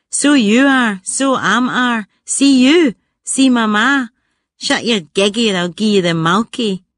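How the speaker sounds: a touch of broad Scottish, quick and cheeky; Scottish playground talk. Retold or imitated. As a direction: toss the Glasgow phrases out with mild Scottish swagger. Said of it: "I lost my Scottish accent".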